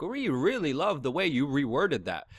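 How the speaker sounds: drawn-out, sweet-talking executive imitation; mock flattery. Producers courting guest after the interview, mock flattery. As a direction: imitate slow, ingratiating praise.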